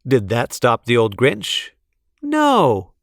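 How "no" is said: emphatic no. A narrator's reading. Narrator's emphatic answer.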